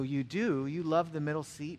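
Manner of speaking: questioning echo in his own voice; mildly surprised echo. Retold or imitated. Preacher answering his elderly seatmate, mildly surprised. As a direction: repeat it back as a puzzled question. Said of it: "I go".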